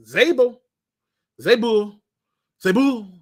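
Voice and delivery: "Zabo" said firmly as ZAY-bo, falling; trying a name. Real, not acted. Fan testing how to say "Zabo", stressed ZAY-bo. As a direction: sound out "Zabo" with a falling tune. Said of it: "Sound like it's a French name".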